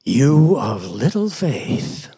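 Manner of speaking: low, slow reproach; mild reproach. Acted. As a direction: say it slowly as a letdown to followers. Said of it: "contrast this with his buddies".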